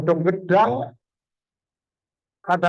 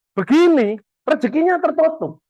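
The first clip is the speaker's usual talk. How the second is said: "Begini" said louder with a falling, dismissive tone; lazy way; 9 semitones higher, 4 dB louder than usual. Shown as a demonstration. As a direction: show the lazy attitude on "Begini". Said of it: "Orang yang gini, ini jelas males". ("Begini" diucapkan keras dan meremehkan)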